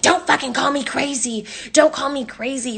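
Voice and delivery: mock heated argument voice; retold indignant protest. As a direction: imitate an offended friend snapping back.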